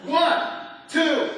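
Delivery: rally the room and count them in; rallying call. Real, not acted. Preacher pushing the congregation to say "Rah" with him. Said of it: "Come on now, everybody needs to say that".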